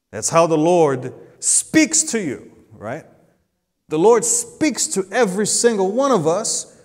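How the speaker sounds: loud, high, driving sermon climb; preaching at full force. Acted.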